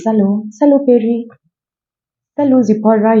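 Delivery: high, cheery hello to a friend; friendly greeting. Pretend. Greeting friends Perry and Zipporah in a high cheery voice. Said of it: "So you can say".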